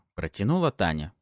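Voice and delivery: ordinary delivery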